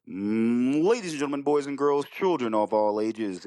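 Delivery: ringmaster. Acted. Opens voicemail like announcer.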